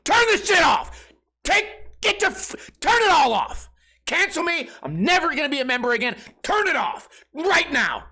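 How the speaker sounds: high, loud tantrum shouting; hammed-up furious rant at the cable company; retold tantrum. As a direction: scream down the phone like a toddler. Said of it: "I got mad. I said".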